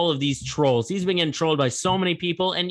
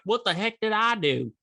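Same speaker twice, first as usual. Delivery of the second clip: mock Southern accent, higher and baffled; fake Southern accent; 6 semitones higher than usual. Kelly wondering what he did, in a mock Southern accent. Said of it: "Using that fake Southern accent".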